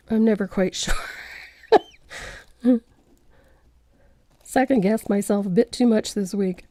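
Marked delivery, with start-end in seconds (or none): 0.1-2.8 a breathy, sheepish whisper with a small laugh; half-laughing confession under the breath; whispered aside. Real, not acted. Painter admits second-guessing herself, whispered with a laugh.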